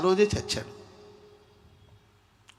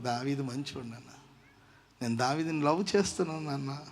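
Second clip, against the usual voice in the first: pleading; 3 semitones lower, 6 dB quieter than usual. Retold or imitated. Daughter pleading with father.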